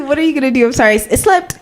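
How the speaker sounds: high-pitched, playful excuse; mock apology. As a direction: play innocent about an accident. Acting innocent excuse for plates.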